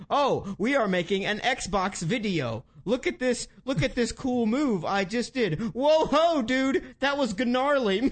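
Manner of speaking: high, excited dude act; hammed-up cheesy host voice; fake hyped voice. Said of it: "It's like".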